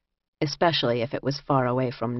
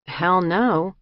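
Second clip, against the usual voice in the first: short emphatic denial, slightly raised; 3 semitones higher, 3 dB louder than usual. A narrator's reading. Inmate answering whether Dublin is like this, brief emphatic denial. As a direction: knock the idea down briefly.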